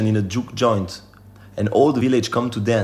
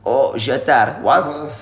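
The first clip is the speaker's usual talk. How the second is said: put-on old Cajun man; slower than usual. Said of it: "the old one".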